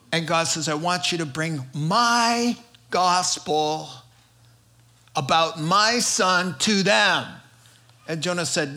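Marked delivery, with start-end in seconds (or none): 0.7-7.3 God's solemn command. Acted. God commissioning a reluctant Jonah.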